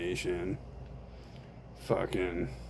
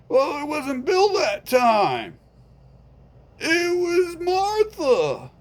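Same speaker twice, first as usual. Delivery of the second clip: a higher, offhand friend voice; lightly voiced friend; 8 dB louder, slower than usual. Friend refusing to help, mildly raised voice. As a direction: shrug it off, unbothered.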